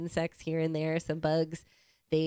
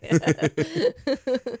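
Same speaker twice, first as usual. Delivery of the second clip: evil laugh; 8 semitones higher, 8 dB louder than usual. Pretend. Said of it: "I need an evil laugh after".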